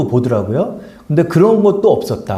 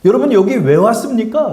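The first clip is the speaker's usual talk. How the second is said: raised, pressing preacher's question; retelling a pastor's sermon, pitched higher and urgent; imitating another pastor; 6 semitones higher than usual. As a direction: challenge the congregation as the quoted pastor. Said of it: "이러는 거예요".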